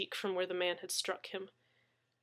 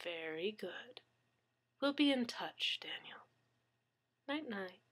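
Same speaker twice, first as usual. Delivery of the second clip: menacing whisper; 8 dB quieter than usual. Acted. Gunman's soft menacing farewell.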